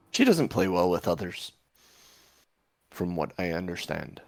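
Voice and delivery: lightly voiced orb, musing with swoops in pitch; a hint of a knowing oracle, thinking aloud; talking orb. Orb answering whether giants are here, lightly voiced and musing.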